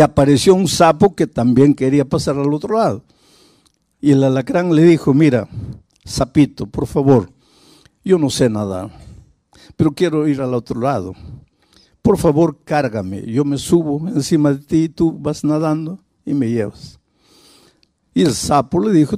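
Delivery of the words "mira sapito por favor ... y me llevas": low, soft coaxing voice, lightly voiced; a sly scorpion begging a ride, lowered and hushed; pleading scorpion. Scorpion begs the frog to carry him, low and soft.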